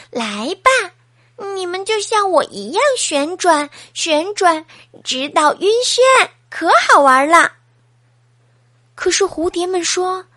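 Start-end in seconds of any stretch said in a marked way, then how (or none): 0.1-7.5 eager coaxing. Acted. Hedgehog coaxes butterflies to dance.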